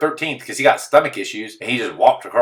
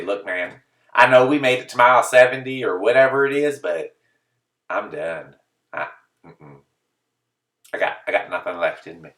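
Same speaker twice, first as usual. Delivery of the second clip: mock exhausted quitting. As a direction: give up, drained and close to tears. Pretend telling pacer he quits.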